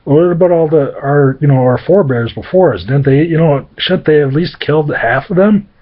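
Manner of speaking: half-hearted whiny disbelief; lightly voiced exasperated brothers. Brothers wondering where the dead men come from, mildly exasperated. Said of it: "They're like".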